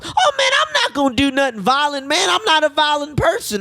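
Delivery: protesting patient. Retold or imitated. Patient denying violence to nurse, indignant protest. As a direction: imitate a man pleading his innocence.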